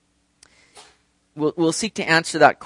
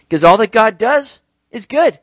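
raised, louder declaration; emphatic preaching; 5 semitones higher, 9 dB louder than usual. Real, not acted. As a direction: drive the point home to a congregation. Preacher states point before rousing repeat.

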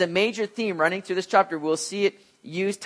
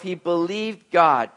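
"He believed God" spoken slowly, stressing "God"; slow it down and land on "God"; slow emphasis; slower than usual. Shown as a demonstration. Preacher driving home the key phrase, slow and deliberate. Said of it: "It doesn't say he believed in God".

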